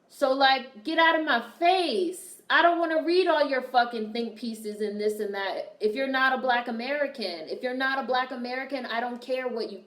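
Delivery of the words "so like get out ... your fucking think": dismissive. Real, not acted. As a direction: wave them off like they're beneath you. Dismissing outsiders' hot takes.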